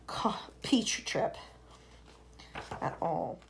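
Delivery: slow whispered aside. Real, not acted. Reader confiding to the listener in a whisper.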